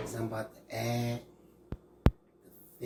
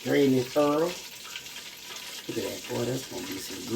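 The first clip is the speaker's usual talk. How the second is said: Louisiana accent. Shown as a demonstration. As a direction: say drain this thorough with a playful Louisiana twang. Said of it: "In my Louisiana voice".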